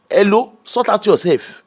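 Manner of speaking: put-on slow, firm Yoruba accent. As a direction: tell them in a Yoruba accent. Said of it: "you like my Yoruba accent".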